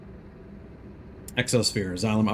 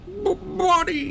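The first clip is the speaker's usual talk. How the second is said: dismayed plea; slower than usual. Real, not acted. Dismay at bad game news.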